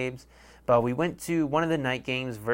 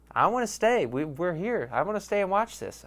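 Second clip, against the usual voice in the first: imitating himself as kid; 6 semitones higher than usual. Kid self begging dad.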